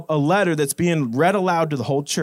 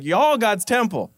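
Southern twang, "Y'all" drawn out as one syllable "yawl"; 3 semitones higher than usual. Shown as a demonstration. Preacher recasts the verse for the church in Southern "Y'all". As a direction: give it a folksy Southern "Y'all" and drop the "are". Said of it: "it's, it's southern".

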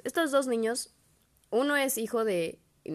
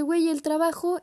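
surprised; 10 semitones higher, 5 dB louder than usual. Retold or imitated. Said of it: "y le dije".

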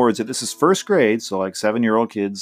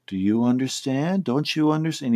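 slightly higher, mildly patient questioning; imitated patient teacher; 4 semitones higher than usual. Teacher asking a confused boy, imitated mild patience. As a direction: gently check that he follows, imitating the teacher. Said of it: "so patiently".

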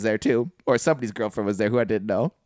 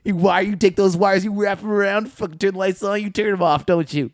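mock-admiring razz; 3 semitones higher, 3 dB louder than usual. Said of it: "You'd be".

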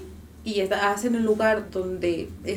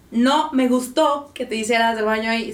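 louder, firm disapproving tone; stern firm voice; 4 dB louder than usual. Shown as a demonstration. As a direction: tell the dog off firmly. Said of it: "pones la voz así de".

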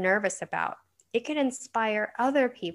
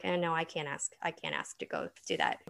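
timid son; 3 semitones lower, 8 dB quieter than usual. Retold or imitated. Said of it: "he might have been like".

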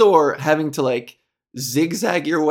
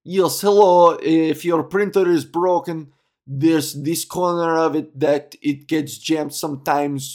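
put-on Russian accent. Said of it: "a Russian guy to tell you".

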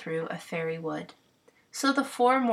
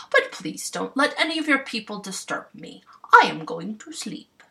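bossy clown voice; 3 semitones higher, 5 dB louder than usual. Acted. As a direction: boss the fairies like a proud clown.

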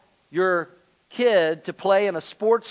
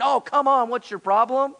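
higher-pitched mock exasperation; teasing scorn; 6 semitones higher than usual. People teasing the pastor's family over skipped leagues, mock scorn. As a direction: imitate a needling, dismissive critic. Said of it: "teased us and gave us a hard time".

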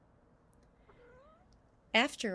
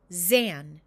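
calling out; 9 dB louder than usual. A narrator's reading. Mother names frog.

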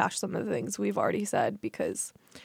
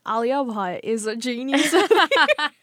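a fair try at an Australian accent; a light Australian accent, a touch louder; 2 semitones higher, 4 dB louder than usual. Shown as a demonstration. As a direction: say it the way an Australian would. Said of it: "that was really good".

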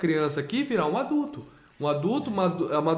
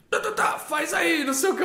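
angry woman; 10 semitones higher than usual. Retold or imitated. Imitating the angry woman from the video, high mock scolding. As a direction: imitate an irritated woman snapping orders in a raised pitch. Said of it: "a mulher braba, assim".

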